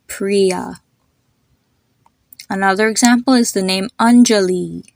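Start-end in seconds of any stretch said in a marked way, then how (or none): 0.1-0.8 "Priya" with EE as in tree; long I in Priya. Shown as a demonstration. Teacher repeating the example name, long EE in "Priya". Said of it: "if you would have a double E". 4.0-4.8 "Anjali" ending in LEE; long final I. Shown as a demonstration. Teacher giving another example, long EE ending on "Anjali". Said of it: "Hear the L I at the end".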